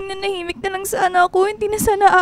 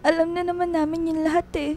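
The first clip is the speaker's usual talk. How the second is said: tearful; 6 dB quieter than usual. Acted. Dayan tells of father's cheating.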